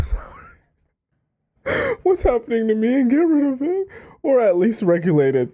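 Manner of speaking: high squeal of real laughter; struggling with laughter. Real, not acted. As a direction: read on while cracking up, voice shooting up high. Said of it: "it just makes me laugh".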